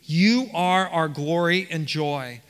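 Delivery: "You" drawn out and leaned on; slow line, landing hard on "You"; stress on You. Acted. Preacher voices Paul's answer to the church, stressing "You". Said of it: "the emphasis on the word you".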